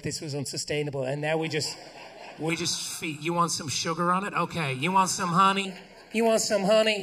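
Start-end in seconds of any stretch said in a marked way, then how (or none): 3.2-7.0 put-on indulgent parent coaxing a child, louder. Parent coaxing toddler with sugar, indulgent and loud. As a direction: offer it sweetly like a giving-in parent.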